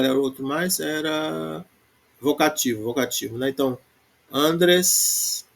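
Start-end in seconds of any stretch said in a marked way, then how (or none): 4.3-5.4 andres with AN stressed; stress on penultimate. Shown as a demonstration. Teacher giving a vocative example, penultimate stress on andres. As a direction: put the weight on the first syllable of andres. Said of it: "também tá na penúltima".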